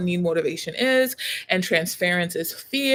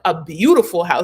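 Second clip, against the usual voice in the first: A beautiful house said loud with beautiful stressed; loud emphatic correction; correcting emphatically; 2 semitones lower, 6 dB louder than usual. Retold or imitated. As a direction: insist it's beautiful, louder. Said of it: "he was like".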